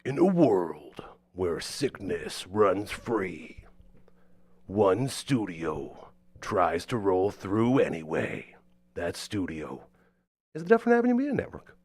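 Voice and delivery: slow, whispered trailer narrator; movie trailer voice. Shown as a demonstration. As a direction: intone it like an epic trailer. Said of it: "you could do, like, the movie trailers".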